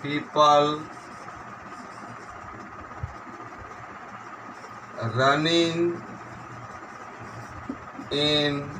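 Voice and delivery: slow word-by-word dictation; measured classroom dictation. Shown as a demonstration. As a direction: dictate with long gaps, each word drawn out level. Dictates exercise sentence.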